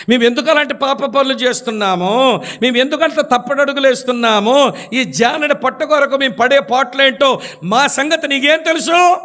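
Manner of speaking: rising heat, peaking on the question; retold angry outburst. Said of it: "అంత కోప్పడకయ్యా స్వామి".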